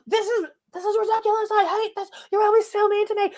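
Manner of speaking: high hammed-up whine; mock whiny Lisa. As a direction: whimper like a wronged child. Mocking Lisa freaking out.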